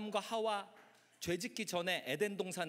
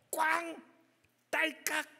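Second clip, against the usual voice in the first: high, punchy slam and click; imitated door slam; 7 semitones higher, 4 dB louder, slower than usual. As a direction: voice the door banging and latching.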